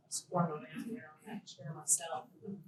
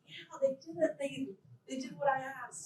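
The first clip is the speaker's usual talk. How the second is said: excited reaction; 7 semitones higher than usual. Retold or imitated. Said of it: "I was like".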